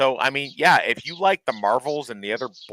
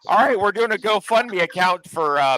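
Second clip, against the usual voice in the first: mock announcement; 3 semitones higher than usual. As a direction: play it like a charity pitch. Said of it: "where we're like".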